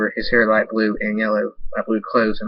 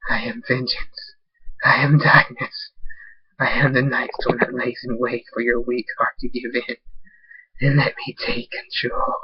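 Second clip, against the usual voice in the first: dark villain proclamation. Acted.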